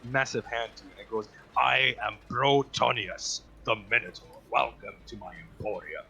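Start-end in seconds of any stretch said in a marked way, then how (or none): 1.6-6.0 lightly voiced monster merchant; grand Minotaur introduction. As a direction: introduce yourself as a proud market host.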